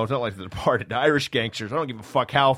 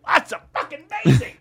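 fake praise; 9 semitones higher, 4 dB louder, faster than usual. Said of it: "and I will say".

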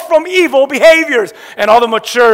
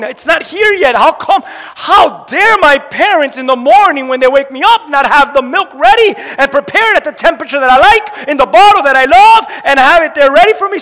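mock spoiled child outrage.

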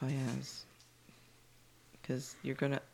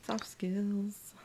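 whisper; 7 semitones higher than usual. Acted. Whispered aside.

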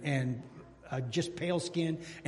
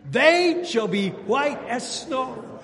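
slow, high, louder unison line; call and response; 6 semitones higher, 6 dB louder, much slower than usual. Shown as a demonstration. Preacher leading the congregation in response, slow and loud. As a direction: lead the church in saying it together. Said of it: "Can you say that with me".

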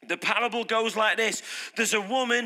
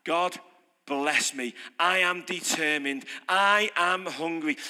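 low, earnest prayer; sincere, eager asking; determined plea; 5 semitones lower, slower than usual. Retold or imitated. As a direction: plead with hungry determination. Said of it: "sat there like that".

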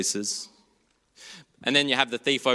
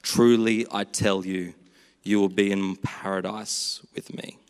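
low, measured words of grace; low, gentle pronouncement; 4 semitones lower, slower than usual. Acted. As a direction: speak it low, as gracious assurance. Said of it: "the voice of grace".

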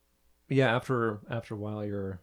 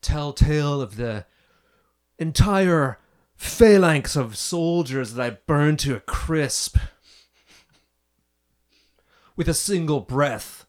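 slow, proud boast of a dragon; boastful dragon voice; 2 semitones higher than usual. Acted. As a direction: brag like an ancient dragon. GM voicing boastful dragon spirit.

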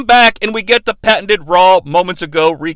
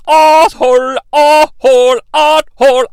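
put-on loud French-accented chant; mock French crowd chant; 5 semitones higher, 5 dB louder than usual. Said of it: "French, uh, accented ... asshole chat".

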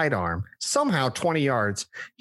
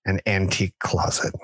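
sleepy voice; 3 semitones lower than usual. Pretend. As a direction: murmur it like you're nodding off. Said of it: "in my best sleepy voice".

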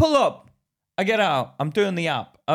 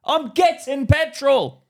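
slow mock reply; 6 semitones higher, 5 dB louder, much slower than usual. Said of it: "What the fuck are you doing".

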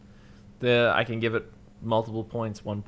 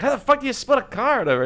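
much higher, louder, fed-up shout; exasperated yell; 14 semitones higher, 7 dB louder, faster than usual. Retold or imitated. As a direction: blow up at the absurdity. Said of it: "he's like".

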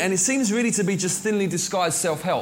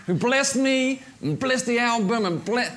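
higher-pitched mock thank-you speech; put-on, higher voice of a thankful artist; mock gratitude; 4 semitones higher than usual. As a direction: imitate a gushing award acceptance.

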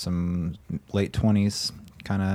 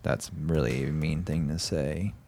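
deep, put-on robot voice; 3 semitones lower, 5 dB quieter than usual. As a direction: speak like a low robot. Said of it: "your robot voice".

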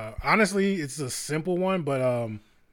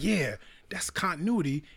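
whisper; 3 semitones higher, 4 dB quieter than usual. Retold or imitated. Stoned self in the meeting.

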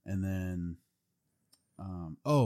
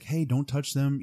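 mock firm warning; 7 semitones higher, 4 dB louder than usual. Imitating leader calling off bodyguard.

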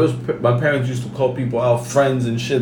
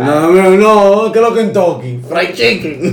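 Dominican accent; 5 semitones higher, 6 dB louder, slower than usual. Shown as a demonstration. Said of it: "now do Dominican".

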